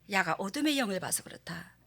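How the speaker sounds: hushed whisper; a soft unvoiced aside. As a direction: breathe it as a secret. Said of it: "unvoiced whisper".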